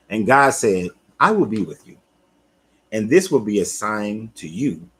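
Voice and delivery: measured, emphatic Bible reading with pauses; scripture reading. Acted. God promising to send Moses, read as emphatic scripture.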